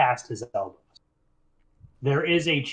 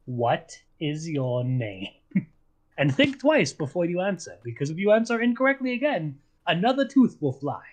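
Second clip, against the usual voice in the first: menacing wizard; 4 semitones higher than usual. Acted. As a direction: lean in and threaten calmly. Eli threatens goblin.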